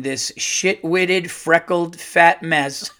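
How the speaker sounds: slow, relishing each insult; deliberate insult reading. Real, not acted. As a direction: read it out word by word. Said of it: "just reading it like that".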